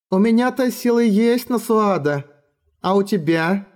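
put-on high, scornful little girl; contemptuous child. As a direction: look down on her from a child's height. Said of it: "посмотрела на неё довольно презрительно".

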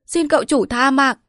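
high, loud desperate plea for mercy; terrified pleading. Acted. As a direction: beg for your life. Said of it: "sợ vãi linh hồn rối rít".

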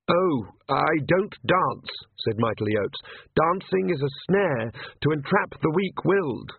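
high, hesitant nervous priest voice; timid priest. Acted. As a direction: stammer it out like a frightened cleric.

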